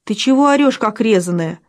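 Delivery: ordinary delivery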